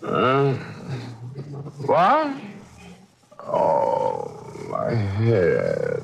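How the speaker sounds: startled high what, then groaning hungover; fake groggy waking. Killer pretending a hangover to fool the detective. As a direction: play the hungover sleeper, a bit hammed.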